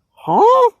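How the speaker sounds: very high-pitched mock "huh?"; baffled. Listener reacting to Nora's rant, high baffled squeak. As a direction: squeak out exaggerated confusion.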